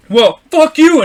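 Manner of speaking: high, loud mock parting shot; retold angry shout. Truck driver yelling as he leaves, retold loudly. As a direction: imitate a driver yelling before fleeing.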